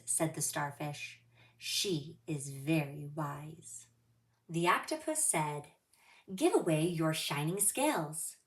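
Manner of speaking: expressive storybook reading; reading to children. Acted. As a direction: read it like storytime for little kids.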